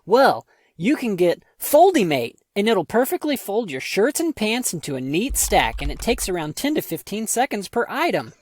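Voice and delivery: upbeat TV-ad pitch; infomercial. Acted. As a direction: sell it like a late-night ad. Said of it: "I'm gonna do it in the style of an infomercial".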